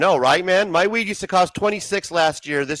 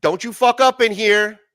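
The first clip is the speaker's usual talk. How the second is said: slow, loud, higher threatening gangster warning; loud slow mobster threat, spaced out; Joe Pesci impression; 7 semitones higher, 5 dB louder, slower than usual. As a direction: menace them slowly, every word pushed. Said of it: "Joe Pesci character was like".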